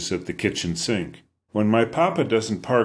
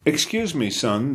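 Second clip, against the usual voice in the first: lightly voiced British traveller; a hint of a British accent on a polite greeting; easy British accent; 6 semitones higher than usual. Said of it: "His accent sounds British".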